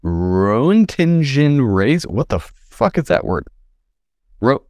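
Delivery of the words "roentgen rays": put-on Mid-Atlantic accent. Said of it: "Mid-Atlantic accent".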